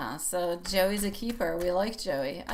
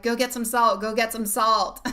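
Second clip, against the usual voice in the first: urgent call; 2 semitones higher, 5 dB louder than usual. Retold or imitated. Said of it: "I'm like".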